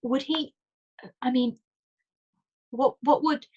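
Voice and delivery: a mild miserable falter; faltering miserably. Acted. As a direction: let the question fall apart. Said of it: "she let the phrase falter miserably".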